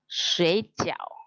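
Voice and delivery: "Sui" stretched low and dipping before "jiao"; third tone on sui. Shown as a demonstration. Teacher showing the mistaken tone to students, "Sui" dipped in third tone. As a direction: show "Sui jiao" wrongly, with a long third tone on Sui. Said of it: "Kalau nyebutnya nada tiga".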